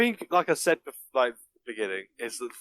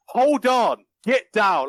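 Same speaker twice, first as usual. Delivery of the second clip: louder retold shout; a hammed-up action-hero yell, louder; mock shout; 5 semitones higher, 6 dB louder, much slower than usual. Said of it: "he shouted".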